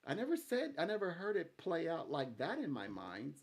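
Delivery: high and loud, caught off guard; amazed surprise. Retold or imitated. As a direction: gasp it out like you just heard something new. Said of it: "And you're like".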